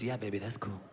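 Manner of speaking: dazed stoned dad. Retold or imitated. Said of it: "He goes".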